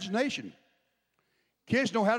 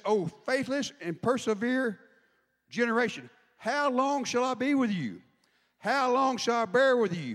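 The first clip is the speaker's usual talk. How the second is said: higher, slow, exasperated sarcasm; sarcastic Jesus; 4 semitones higher than usual. Retold or imitated. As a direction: drag it out like a weary, sarcastic teacher. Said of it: "I think he's being a little sarcastic".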